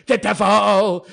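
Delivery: laughing through the words. Real, not acted. Vlogger laughing at being called the devil, laughing. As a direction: chuckle it out.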